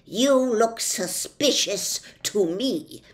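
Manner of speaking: loud, slowish officious policeman; pompous policeman. Acted. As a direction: lay down the law with bluster. Policeman accuses humbug.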